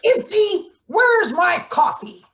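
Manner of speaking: high, loud call across the room. Acted. Boss shouting across the shop to Izzy for coffee, loud and high. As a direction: yell for the coffee like she's late.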